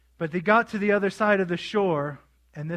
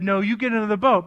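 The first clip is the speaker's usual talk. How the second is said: brisk, slightly raised order; firm command; 4 dB louder, faster than usual. Retold or imitated. Jesus making reluctant disciples leave, firm first order. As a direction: imitate a parent insisting. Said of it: "He made them".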